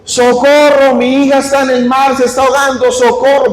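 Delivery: calling out for help while swimming; retold cry for help. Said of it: "iba gritando".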